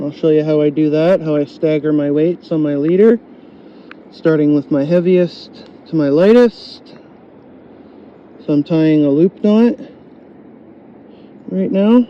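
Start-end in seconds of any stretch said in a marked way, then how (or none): 4.1-12.1 talking with a dry mouth; sticky dry-mouthed speech. Real, not acted. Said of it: "I have a bit of a dry mouth".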